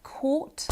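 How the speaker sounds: "court" with a long aw, no r; speaker's own accent. Shown as a demonstration. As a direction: say "court" as "cawt". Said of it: "in my accent".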